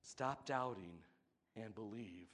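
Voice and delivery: loving admonishment. Retold or imitated. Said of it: "the loving admonishment".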